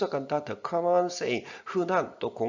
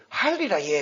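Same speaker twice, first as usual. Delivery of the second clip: a quick mock Gyeongsang dialect line, louder; Busan dialect imitation; 5 semitones higher, 5 dB louder than usual. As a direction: imitate a foreigner speaking Busan dialect, light and playful. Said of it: "경상도 사투리 쓰는 그 외국 미국인".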